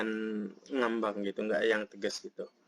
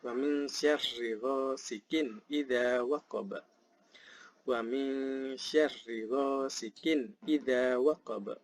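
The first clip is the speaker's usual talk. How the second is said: slow, measured tartil recitation; slow Arabic chant with drawn-out nasal holds; Quran recitation; 3 semitones higher, slower than usual. Shown as a demonstration. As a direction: recite slowly with long, held vowels. Recites verse three.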